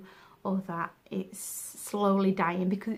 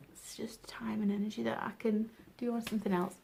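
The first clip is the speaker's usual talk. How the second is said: soft breathy whisper; 6 dB quieter than usual. Real, not acted. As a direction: mutter it under your breath. Whispered aside.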